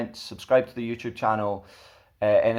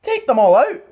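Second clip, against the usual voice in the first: higher, louder firm order; firm command; 13 semitones higher, 12 dB louder than usual. Acted. Wise old man firmly ordering the animals out. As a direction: give the order with authority. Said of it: "said the wise old man".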